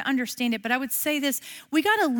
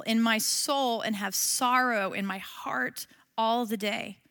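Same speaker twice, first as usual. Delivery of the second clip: solemn reading of a lament psalm; scripture reading. Acted. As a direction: read the psalm like a prayer. Reads the psalm aloud.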